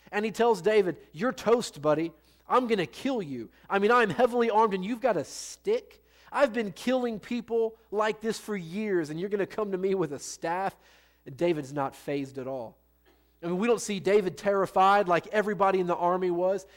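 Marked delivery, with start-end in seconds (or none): 1.1-10.8 giant's trash talk. Acted. Preacher voices Goliath's trash talk.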